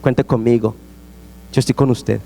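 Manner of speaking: low, gentle imitation of consolation; comforting. Preacher acts out consoling a weeping person, gently comforting. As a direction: reassure them as if offering a hug. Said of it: "ir a abrazarle".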